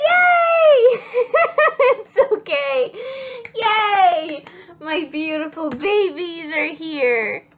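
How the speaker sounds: tipsy, squealing with giggles. Real, not acted. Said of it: "'Cause I'm a little tipsy".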